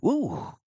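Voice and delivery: high, swooping ooh; high-pitched sound of dismay; recoiling ooh. A narrator's reading. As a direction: react to a slimy sight with a high ooh. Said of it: "the mom looked at it and went".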